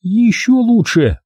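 slow, high sarcastic exclamation; Milka, sarcastic. A narrator's reading. Milka tearing off the gauze, slow high sarcasm. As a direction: drag it out in mock delight. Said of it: "воскликнула Милка".

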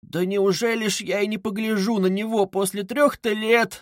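high-pitched mother's lament; tearful plaint. A narrator's reading. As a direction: plead as if starting to cry. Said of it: "заплакала Пульхерия Александровна".

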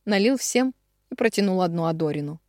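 ordinary delivery

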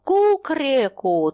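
slow drawn-out rooster call; rooster crow. Acted. Holy fool crows like a rooster in his chant. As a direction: crow it like a cockerel at midnight. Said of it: "спел петух".

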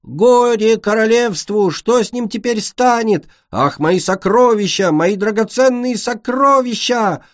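overacted dying-queen wailing; hammed-up lament. Defeated queen's death lament.

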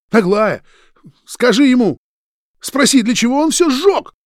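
high, loud enraged yelling at a friend; furious shout. A narrator's reading. Roman pinning Vitya to the wall, furious shout. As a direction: yell it in his face, betrayed.

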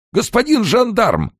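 high, loud panicked call; wailing cry. A narrator's reading. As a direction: shriek for the gendarme. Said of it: "дико озирался".

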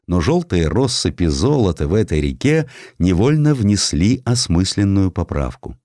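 ordinary delivery, nothing marked

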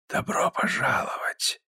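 медленный шипящий шёпот, без голоса; прошепчи, как змея, завораживая; змеиный шёпот. Acted. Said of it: "змеиным шёпотом". (змеиный гипнотический шёпот)

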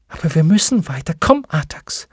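fast, rising to a high call on Komm; urgent urging. Acted. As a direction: pull him forward with your voice. Atreyu urging horse on.

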